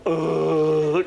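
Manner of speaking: long, drawn-out "ohhh"; imitated revelatory "oh". Pete hearing the voice he wanted, imitated long "oh". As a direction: draw out a groan of sudden discovery. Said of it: "I saw Pete go".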